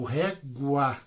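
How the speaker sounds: "régua" broken into two parts, ré-gua; split to show diphthong. Shown as a demonstration. Teacher showing a word's final diphthong, "régua" split in two. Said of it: "ela é terminada em ditongo".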